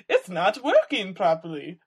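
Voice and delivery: a loud, laughing, badly faked Swiss accent; mock Swiss accent that falls apart into a laugh. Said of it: "That's the worst Swiss accent I've ever done".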